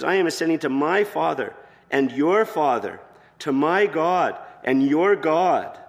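loud, slow, lifted declaration of your Father and your God; preacher booming the promise, stretching every word; emphatic proclamation. Acted. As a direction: proclaim each phrase slowly and grandly. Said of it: "he says".

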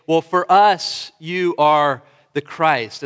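slow, loud, noncommittal take on the confession; lazy relativist shrug of a confession; wishy-washy mock confession. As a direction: say it like it's just your opinion, drawn out and hedging. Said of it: "as if it's a relative perspective".

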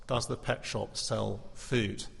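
faint, slow dying voice; weak frail voice. Acted. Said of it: "in a very weak and frail voice".

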